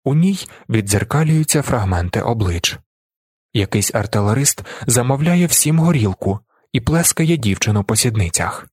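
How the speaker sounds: ordinary delivery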